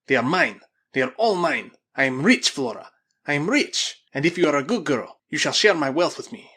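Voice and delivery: loud, elated possessiveness; gloating. Acted. Spaniard claims the diamonds before Flora, loudly gloating. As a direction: crow over the riches at full voice.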